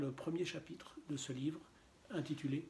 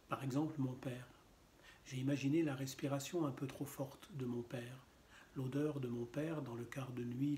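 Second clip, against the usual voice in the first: poetry reading. Acted. Reader shares a family poem on a reading channel, understated poetry reading.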